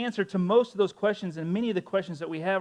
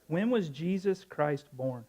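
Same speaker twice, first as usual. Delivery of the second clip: repeating to voice assistant; slower than usual. Real, not acted. Repeating question slower to assistant.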